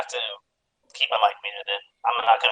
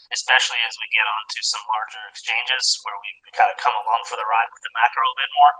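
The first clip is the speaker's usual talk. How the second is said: robotic phone distortion; garbled, like a glitching robot. Real, not acted. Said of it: "you're kinda getting roboty".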